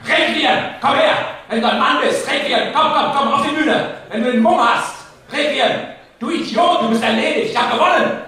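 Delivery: laughing, cocky taunt at a rival; taunting challenge. Acted. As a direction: goad him onto the stage, mocking. Speaker taunts rival onto stage.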